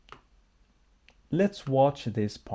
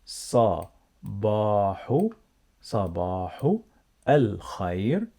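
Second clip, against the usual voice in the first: word by word; faster than usual. Shown as a demonstration. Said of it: "She said".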